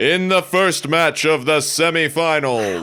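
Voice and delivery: put-on sports play-by-play announcer delivery. Introducing the first semifinal match to friends, in a sports announcer voice. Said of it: "I'm going to do it again".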